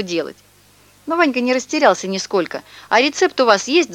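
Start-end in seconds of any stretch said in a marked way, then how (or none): 2.9-3.9 high, eager call; shouting. Acted. Vanka offers to fetch medicine, eager shout. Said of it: "закричал он".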